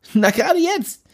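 cocky friend, pushy and carefree; Jimmy Blue voice. Acted. Jimmy counting guests.

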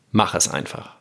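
accent "Mach", then drop through "es einfach"; "Mach" carries the phrase, falling after it; stress on Mach. Shown as a demonstration. Podcaster summing up the first reading, "Mach" stressed. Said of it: "Betonung auf Mach heißt natürlich".

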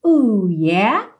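slow, drawn-out words; slow model lyrics. Shown as a demonstration. Teacher modelling the last lyrics for students, slow and drawn out. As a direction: separate each phrase and stretch it.

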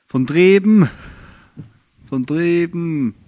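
put-on East German accent, vowels drawn out; East German dialect. Plugging comedy from over there, in East German dialect. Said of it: "mit dem ostdeutschen Dialekt".

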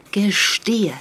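hushed, menacing whisper; detective whispering at the thief; whispered demand. Acted. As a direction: breathe the order to confess.

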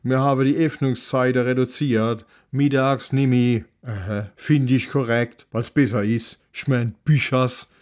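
leicht gespielter pfälzischer Bibliothekar, etwas lauter; mürrisch-direkt, wie ein alter Mann vom Dorf; grummeliger Bibliothekar. Acted. Librarian figure speaks dialect. (Bibliothekar brummt Kommissar an, leicht gespielt)

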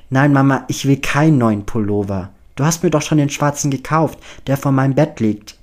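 annoyed objection down the phone; exasperated protest. Acted. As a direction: protest with exasperation, pushing the volume up.

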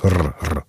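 "R, R" with a strongly rolled trilled r. Shown as a demonstration. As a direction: trill the "R" hard on the tongue. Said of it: "ein rollendes R".

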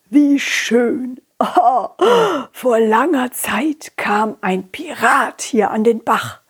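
put-on slow, croaky old fish speaking with care; an ancient fish greeting the visitors slowly. Old fish tells the story.

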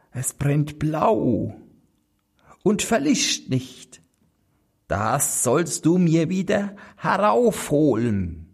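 hohe, geheimnisvolle Hexe mit Flüstern; Hexenstimme. Acted. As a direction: alte Hexe, raunend und schrill. Hexe schickt ihn zum Brunnen. (listige Hexe, flüsternd und hoch)

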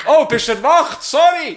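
high, loud, hammed-up apology; mock apologetic whisper-shout. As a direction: play it as startled sorry in a mock voice. Acts out waking a bedmate.

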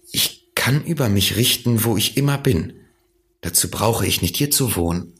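a hint of a boy answering earnestly; little prince. (leicht kindliche Stimme des kleinen Prinzen)

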